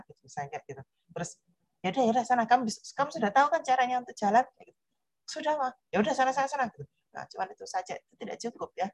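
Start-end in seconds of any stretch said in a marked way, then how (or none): 1.8-4.5 put-on higher-pitched parent waving a child off; lightly acted, offhand parental go-ahead; dismissive parent. 5.3-5.7 high-pitched little reply to Mum; lightly acted kid's reply; child answering mother. 5.9-6.7 put-on higher-pitched parent shooing a child away; lightly acted parental brush-off; dismissive parent. Acts parent waving child off.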